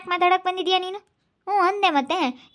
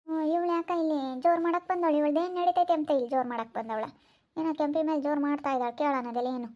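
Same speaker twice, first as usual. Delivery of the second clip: muttered aside; 2 semitones lower, 6 dB quieter than usual. Acted. Muttered aside among onlookers.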